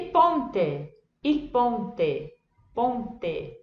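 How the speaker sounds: ponte ending in eh, clean t; Italian ponte. Shown as a demonstration. Teacher models Italian ponte. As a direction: say ponte as pon-teh. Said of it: "como que a gente lê ponte".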